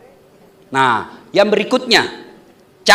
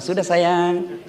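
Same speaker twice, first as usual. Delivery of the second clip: soothing wife; 5 semitones lower, 7 dB quieter, slower than usual. Retold or imitated. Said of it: "Saya biasa kalau marah-marah".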